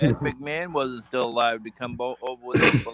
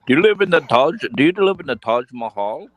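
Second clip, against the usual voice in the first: mocking question; 6 dB louder than usual. Mocking the Indian caller.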